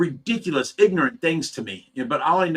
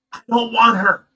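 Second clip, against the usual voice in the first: louder, higher mock outburst; exasperated retort; 6 semitones higher, 6 dB louder than usual. To the jealous friend, a louder, higher retold retort. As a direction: throw it back at the jealous friend, half-yelling. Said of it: "I'm like".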